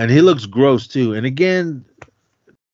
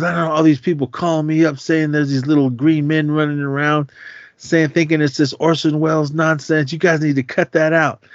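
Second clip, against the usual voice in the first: Rockin' Ricky; 5 semitones higher than usual. Retold or imitated. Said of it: "He goes".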